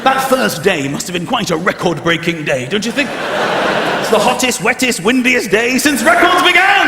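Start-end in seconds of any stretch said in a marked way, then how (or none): 3.1-6.9 hyped forecaster. Pretend. Mock weather forecaster.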